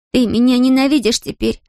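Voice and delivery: put-on high girl's voice, pitiful and small; a child afraid she's lost his love; plaintive young girl. A narrator's reading. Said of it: "жалобно произнесла она".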